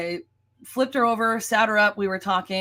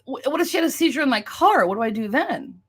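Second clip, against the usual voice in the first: worried inner question, starting higher; retold fear; 4 semitones higher than usual. Thinking about driving the injured agent, mildly afraid. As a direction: replay anxious thoughts with mild alarm. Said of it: "I was really afraid".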